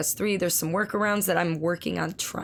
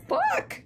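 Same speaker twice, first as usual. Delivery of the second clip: overwhelmed high curse. Real, not acted. Overwhelmed by viewer's kindness.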